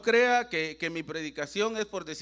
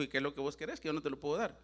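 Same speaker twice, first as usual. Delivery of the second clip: sad father; 3 semitones lower, 6 dB quieter, faster than usual. Retold or imitated. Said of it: "se puso triste".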